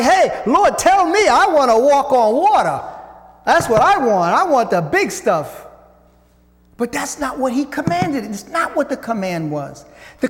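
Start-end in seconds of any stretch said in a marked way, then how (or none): 0.0-5.7 mock eager demand. Mocking what we would demand.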